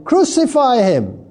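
restrained outcry, falling at the end; crowd crying out. Acted. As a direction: read the crowd's demand with some force. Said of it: "they cried out again".

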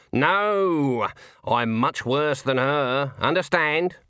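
slow, emphatic warning in character; menacing old witch. A narrator's reading. Old witch sets a man straight, menacing. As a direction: draw it out as an old woman's threat. Granny warns off Andre.

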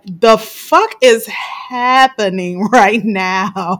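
slow, drawn-out disbelief with a laugh; stunned disbelief. Retold or imitated. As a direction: spell out each word in shock. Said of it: "I was just like".

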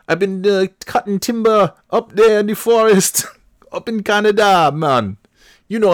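high, loud, hammed-up fake New England accent; terrible Maine accent. Playing himself cast in the film, terrible Maine accent. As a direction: do a wildly wandering Maine accent, badly. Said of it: "my accents are terrible".

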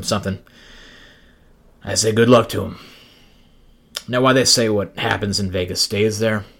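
world-weary noir cab driver narration; a lightly voiced gritty cabbie, deadpan; jaded cab driver. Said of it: "my jaded cab driver voice going".

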